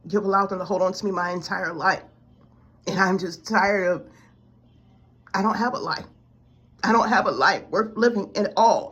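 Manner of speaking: a worn-out prayer that swells into despair; desperate plea. Retold or imitated. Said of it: "I said".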